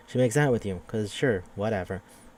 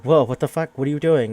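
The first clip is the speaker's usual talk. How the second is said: mock surprised; 5 semitones higher, 7 dB louder than usual. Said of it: "and it's like".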